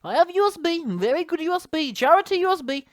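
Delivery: high-pitched foreign caricature; hammed-up high, singsong boxer impression; mock Klitschko. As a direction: send up his sales talk in a silly high accent. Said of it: "All this kind of business, talking about his U S B".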